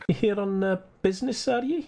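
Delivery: put-on Scottish accent, curious. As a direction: ask it lightly Scottish, prying. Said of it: "he's Scottish".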